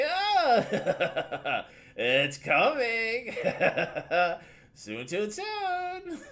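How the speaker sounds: high, laughing disembodied voice; unearthly voice. Acted. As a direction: cackle it out like a ghost. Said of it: "it's that male voice again".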